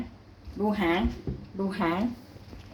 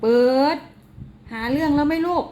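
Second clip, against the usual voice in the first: higher, louder scolding; a mother telling off her pet; scolding cat; 7 semitones higher, 5 dB louder than usual. Real, not acted. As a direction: scold the cat for picking a fight.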